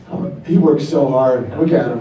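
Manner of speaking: low mock-admiring coo, laughing at the end; lightly voiced admiring woman; women admiring him. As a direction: purr it like she's checking him out. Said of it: "start being like".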